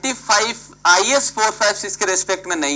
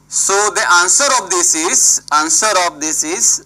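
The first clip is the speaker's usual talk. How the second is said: slow dictation; 3 dB louder, much slower than usual. Shown as a demonstration. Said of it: "teacher dictating answer slowly".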